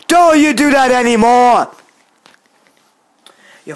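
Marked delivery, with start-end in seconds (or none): 0.1-1.7 loud, raised warning; angry scolding. Real, not acted. Telling off a hateful commenter, angry scolding. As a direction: scold them loudly, drawing it out.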